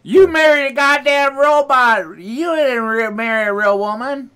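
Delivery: mock outrage. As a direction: exclaim it high in hammed-up disbelief. Mock parent scolding robot marriage.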